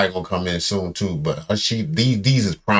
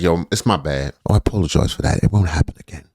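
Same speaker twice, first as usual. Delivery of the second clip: casual fake apology; 6 semitones lower than usual. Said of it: "Just be like".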